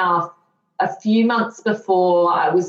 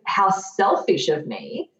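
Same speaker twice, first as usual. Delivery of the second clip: dry sarcasm with a sharp rising right; sarcastic. Real, not acted. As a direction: sarcasm aimed at her former self. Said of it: "hear the sarcasm in my voice".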